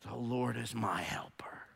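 breathy secret confession of faith; whisper. Acted. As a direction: drop to a hushed whisper. Sudden hush after loud preaching.

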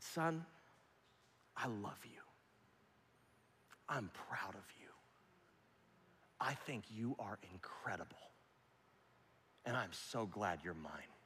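put-on soft, low, whispered love to a child; tender whisper. Father whispering love to his son, tender whisper. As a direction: whisper it like holding his face.

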